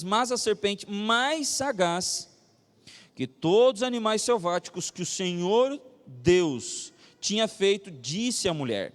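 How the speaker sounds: slow, solemn Bible reading; scripture reading. A narrator's reading. Preacher reading Genesis to the congregation, solemn scripture reading. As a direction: read it out slowly, weighing key words. Reads the Bible verse aloud.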